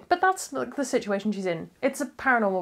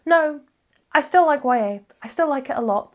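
loud, firm "No, I still like Y A"; emphatic retort; 5 semitones higher, 5 dB louder than usual. Retold or imitated. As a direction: insist back to your doubting self. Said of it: "and I'm like".

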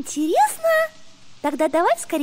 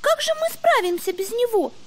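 doubtful; 3 semitones higher than usual. Acted. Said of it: "Засомневалась Бунька".

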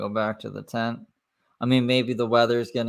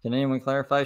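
mocking echo; 4 semitones higher, faster than usual. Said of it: "laughs then repeats her".

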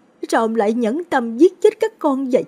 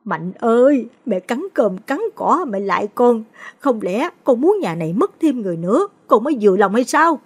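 higher pitched, pleading through tears; tearful pleading; 5 semitones higher, 3 dB louder than usual. A narrator's reading. Mother on the ground begging her son, tearful. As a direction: beg her son while crying. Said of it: "bò ra đất mà khóc".

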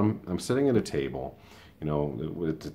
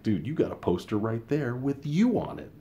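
teasing; 8 semitones higher than usual. Retold or imitated. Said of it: "I was just like".

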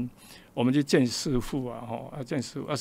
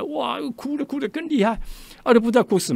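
much higher, excited exclaim; amazed exclaim; 10 semitones higher, 4 dB louder than usual. Retold or imitated. Telling listener how the brothers wept harder, excited and high. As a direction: marvel at how hard they cried. Men cry even harder.

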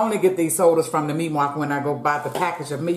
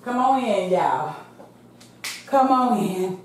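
calling out; 7 semitones higher than usual. Real, not acted. Greeting viewers, calling them in.

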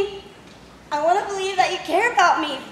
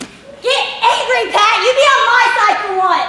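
angry demand; 3 semitones higher, 5 dB louder than usual. Acted. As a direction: goad him into a fight. Wife demands husband get angry.

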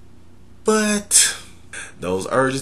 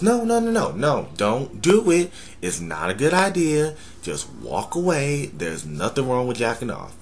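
higher, pleading voice of reason; voice of logic; 4 semitones higher than usual. Acted. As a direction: talk yourself out of it, higher. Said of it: "Our logic goes".

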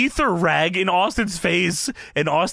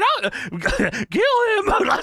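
much higher, very slow, gleeful wail; Paul Bearer voice; 11 semitones higher, much slower than usual. Retold or imitated. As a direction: drag it out high and creepy. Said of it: "Paul Bearer saying".

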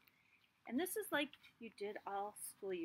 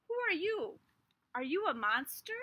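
high, loud scared question; frightened seed; 6 semitones higher, 6 dB louder than usual. Acted. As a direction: ask fearfully.

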